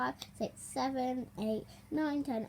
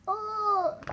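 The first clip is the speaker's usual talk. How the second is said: surprised oh; 9 semitones higher, 5 dB louder than usual. Acted. Dormouse exclaims in story.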